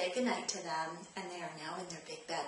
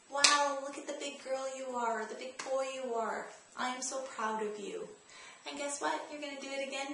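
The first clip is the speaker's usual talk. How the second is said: praising; 5 semitones higher than usual. Shown as a demonstration. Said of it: "find something positive that you're going to say".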